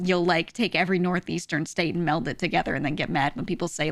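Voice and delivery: ordinary talk, nothing marked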